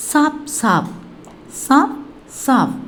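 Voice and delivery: first சாப் pitched high, second சாப் falling; Hindi pronunciation demo. Shown as a demonstration. Teacher shows learners the Hindi for "clearly", pronunciation demo. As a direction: say சாப் சாப் as two separate model words. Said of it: "எப்படி ஹிந்தியில pronounce பண்ணலாம்".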